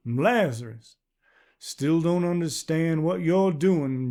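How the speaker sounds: put-on a wary stranger's unplaceable accent; strange rural accent. Man voiced by narrator.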